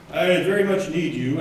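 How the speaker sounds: lightly put-on priest voice; a hint of a kindly priest appealing to the flock. Father asking parishioners for help, mild priest voice. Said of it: "this is my priest voice".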